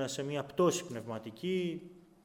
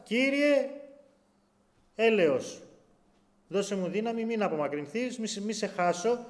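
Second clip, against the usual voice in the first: pleading prayer; 4 semitones higher, 3 dB louder than usual. Acted. Voiced prayer of fallen believer.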